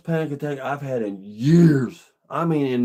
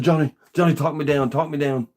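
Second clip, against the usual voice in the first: urgent plea; 2 semitones higher than usual. Retold or imitated. Panicking runner asks Johnny to talk them down, urgent. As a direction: re-enact a mildly panicked appeal.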